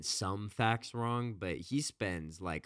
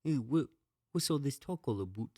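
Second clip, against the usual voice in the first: high, hammed-up Canadian "aboot"; a cartoon Canadian; mock Canadian accent; 7 semitones higher than usual. Host jokes about "about" in a mock Canadian accent. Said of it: "They say a boot".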